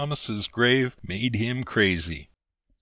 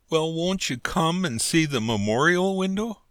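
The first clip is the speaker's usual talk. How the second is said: broken-hearted; 7 semitones higher than usual. A narrator's reading. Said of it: "in broken-hearted tones he said".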